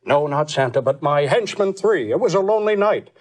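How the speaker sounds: lightly voiced Nixon reciting a Christmas poem; a hint of Nixon telling the night before Christmas; understated Nixon impression; Richard Nixon. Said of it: "Richard Nixon".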